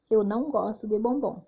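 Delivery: "Eu não gosto de bombom" whispered; hushed model sentence; whispered example. Shown as a demonstration. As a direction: say it under your breath.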